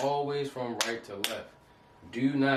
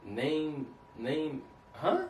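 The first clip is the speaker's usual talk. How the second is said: lightly voiced, higher puzzled old man; puzzled Abraham; 4 semitones higher, much slower than usual. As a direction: play a confused patriarch reading it backwards. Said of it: "Abraham is like".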